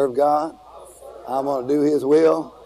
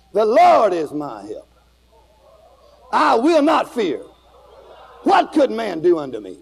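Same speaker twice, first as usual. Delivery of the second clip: bold with attitude; 5 semitones higher than usual. Shown as a demonstration. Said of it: "get a little attitude with it".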